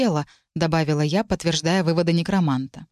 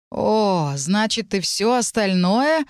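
slow, mildly pained groan; 3 semitones higher, much slower than usual. Acted. Darian realizing the dragon saw everything, slow mild groan. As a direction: moan it out in dismay. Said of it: "простонал Дариан".

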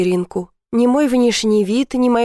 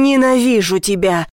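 angry outcry; 3 dB louder than usual. A narrator's reading. Lover's outburst of hatred.

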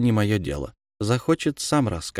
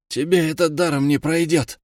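hissed threat; 7 semitones higher than usual. A narrator's reading. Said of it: "прошипел парень".

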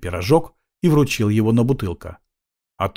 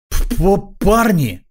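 stammering mumble; 9 semitones higher, 4 dB louder, much slower than usual. A narrator's reading. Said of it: "пробормотал Пончин".

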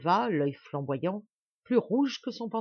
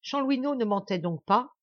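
higher, mildly strangled question; choked voice; 6 semitones higher, 4 dB louder than usual. A narrator's reading. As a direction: ask it with a tightened throat. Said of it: "d'une voix étranglée". (voix légèrement étranglée)

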